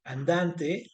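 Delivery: teacher slowly spelling out "andante" as a rhyme example; slow drawn-out demo word. Shown as a demonstration. Teacher to class, demonstrating a rhyme word, slow and drawn out. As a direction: stretch "andante" out slowly, syllable by syllable. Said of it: "si yo digo".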